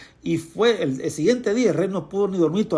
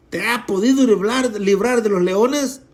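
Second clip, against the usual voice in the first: sad calling out; 4 semitones higher than usual. Acted. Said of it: "llamó a voces".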